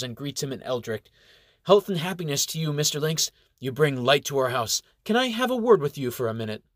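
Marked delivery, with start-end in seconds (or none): 1.6-6.6 a lightly voiced young elf woman, courteous; higher, formal greeting that turns quick and eager; Zena, polite elf girl. Zena greets Lynx, then rushes her request, lightly voiced.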